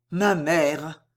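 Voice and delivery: gentle, subdued murmur of love; infinite tenderness. A narrator's reading. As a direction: say it tenderly, lingering on the words. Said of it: "répéta le torero avec une douceur infinie".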